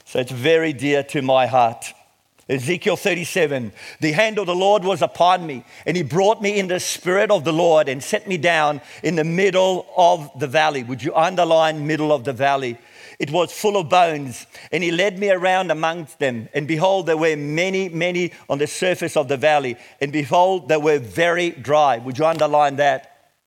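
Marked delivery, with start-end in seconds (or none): 2.5-10.8 measured, emphatic Bible reading; declaimed scripture with weighted key words. Acted. Reads scripture to congregation. 13.2-22.0 measured, emphatic Bible reading; declaimed scripture with weighted key words. Acted. Reads scripture to congregation.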